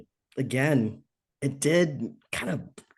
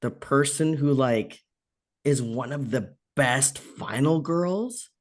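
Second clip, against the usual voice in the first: incredulous, rising at the end; drawn-out words climbing to a disbelieving question; indignant disbelief; slower than usual. Retold or imitated. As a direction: call them out in disbelief. Indignant retort to lowball pay.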